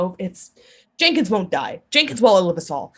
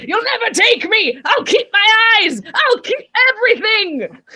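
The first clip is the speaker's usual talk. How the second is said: high, slow, laughing yell; defiant shriek; 12 semitones higher, 5 dB louder, slower than usual. Acted. Old woman shrieking at the people who want her eyes, high and laughing. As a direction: howl it out, clinging on, half laughing. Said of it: "she's like".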